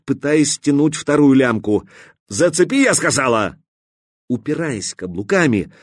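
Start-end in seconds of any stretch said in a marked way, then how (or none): 2.3-3.6 a high demanding shout; insist, fed up; insistent shout. Acted.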